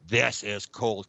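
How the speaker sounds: slow, stretched-out grumble about the cold; retold complaint, dragged out slowly; drawn-out complaint. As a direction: draw each word out slowly. Complaining while freezing in meditation.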